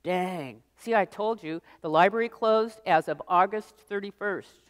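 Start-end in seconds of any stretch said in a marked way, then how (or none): none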